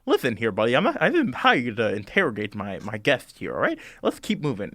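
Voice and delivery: lightly voiced king cutting in firmly; Scarecrow King. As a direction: take charge with a touch of impatience. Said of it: "the Scarecrow King goes".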